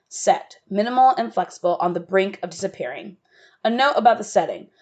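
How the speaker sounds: even, unhurried reading of the setting; stage direction reading. A narrator's reading. Narrator reading the setting and stage directions, calm. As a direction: set the scene plainly for the listeners.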